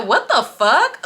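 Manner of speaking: drawn-out, shocked question; acted shock. Storyteller reacting to a girl in his bed, acted shock. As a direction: stretch it out in disbelief.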